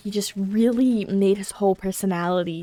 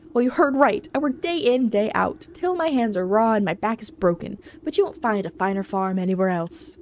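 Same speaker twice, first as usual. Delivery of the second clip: proud ox farmer. Acted.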